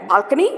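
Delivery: "balcony" swept upward at the end; "balcony" read with a lifting, querying tune; rising inflection. A narrator's reading. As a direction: say "balcony" as a questioning rise. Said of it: "With the rising inflection".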